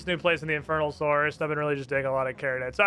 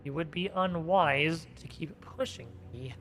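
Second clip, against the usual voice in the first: vampire voice; 7 dB quieter than usual. Acted. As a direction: warn them quietly as a vampire. Voicing vampire NPC.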